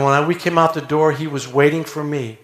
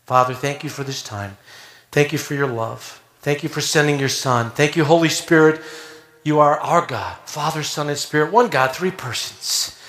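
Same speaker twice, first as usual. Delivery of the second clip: lightly voiced thankful prayer. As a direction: pray it sincerely to God. Opens prayer.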